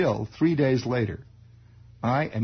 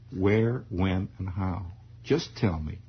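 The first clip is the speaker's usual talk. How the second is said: coaxing father; 5 semitones lower, slower than usual. Retold or imitated. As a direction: soothe the boy into confessing. Father insists.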